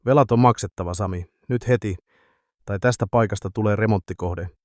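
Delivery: rasped out, mildly voiced; a touch of a raspy thug; hoarse rasp. Bigger thug rasping the demand at Sami, hoarse. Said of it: "korisi käheällä äänellä".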